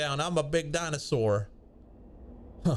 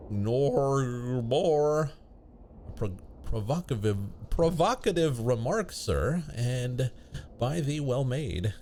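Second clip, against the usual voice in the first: put-on old-fashioned speech; slower than usual. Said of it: "When did you start talking like this?".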